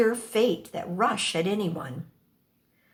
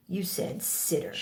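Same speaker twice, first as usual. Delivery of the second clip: lightly softer, a quiet aside; a touch softer, almost to himself; 6 dB quieter than usual. A narrator's reading. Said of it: "then adds quietly".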